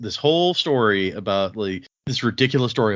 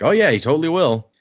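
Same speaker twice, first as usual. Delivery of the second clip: smug boast; 6 semitones higher, 6 dB louder than usual. Retold or imitated. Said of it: "the guy's like".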